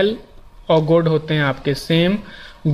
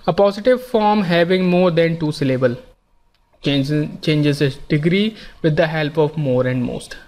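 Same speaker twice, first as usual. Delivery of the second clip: slow, careful reading of a grammar rule; much slower than usual. Shown as a demonstration. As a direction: dictate each phrase slowly to the class. Reads rule text slowly. (धीमे-धीमे नियम पढ़ना)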